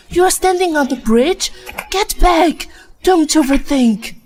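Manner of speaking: high, loud frantic call; panicked shout. Acted. Mother yelling at her daughter on the bridge, frantic. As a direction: yell at her to get back.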